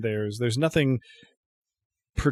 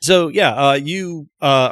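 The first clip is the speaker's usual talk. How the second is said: laughing; 7 semitones higher, 7 dB louder, slower than usual. Real, not acted. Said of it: "find the speaker's voice again".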